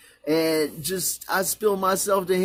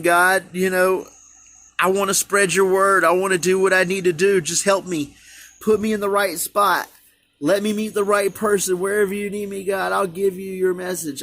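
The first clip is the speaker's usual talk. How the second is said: earnest prayer. Real, not acted. Prays aloud to God.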